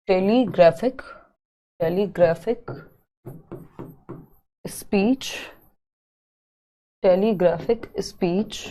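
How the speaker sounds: टेलीग्राफिक speech repeated softly with long pauses; slow dictation. Shown as a demonstration. Teacher dictating the term for students, slow and soft. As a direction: spell it out slowly for the notebook.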